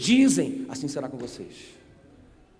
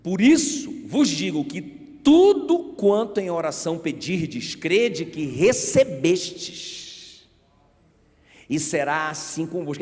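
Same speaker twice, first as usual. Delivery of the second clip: solemn scripture reading; 4 dB louder, slower than usual. Shown as a demonstration. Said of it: "Ele vai dizer assim, olha".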